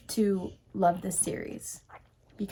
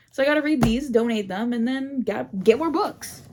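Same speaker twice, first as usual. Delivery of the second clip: louder, higher, gleeful; excited; 3 semitones higher, 5 dB louder than usual. Real, not acted. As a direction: build up the excitement. Excited plan to buy books.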